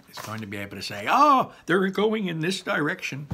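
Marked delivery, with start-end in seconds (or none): 1.1-3.3 high voice. Pretend. Imagined searcher spotting clue.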